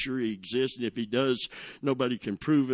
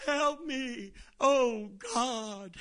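a high, thin echo of an injured man crying out, softer than speech; imitated cry for help; 9 semitones higher, 3 dB quieter, much slower than usual. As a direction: mimic the man's plea from down the hall, quietly. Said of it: "And he's crying out".

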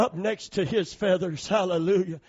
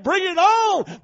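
confident chick; 11 semitones higher, 9 dB louder, slower than usual. Retold or imitated. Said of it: "getting under mama's wing and saying".

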